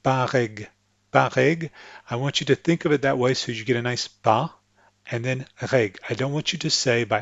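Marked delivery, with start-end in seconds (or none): 0.0-1.7 PAREG split as "pa-REG" with a French R; French PAREG, break before the R. Shown as a demonstration. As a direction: say PAREG with a clean PA, R starting the second syllable. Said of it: "think of the R as being with the egg".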